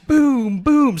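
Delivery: loud, high booms; imitated slapping blows. Showing how his friend slapped himself, loud impact noises. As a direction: punch out each hit. Acts out friend's head slaps.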